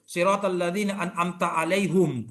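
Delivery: Siratal ladzina an'amta alaihim recited in a regional dialect, alaihim said as aleihum; a regional reading of alaihim as aleihum; dialect recitation. Shown as a demonstration. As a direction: recite it the way the local imam would. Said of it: "Apa itu?".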